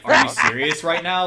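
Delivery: loud, high-pitched incredulity; retold disbelief.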